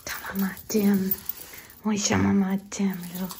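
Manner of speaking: slow, tender whisper; talking to a dog. Real, not acted.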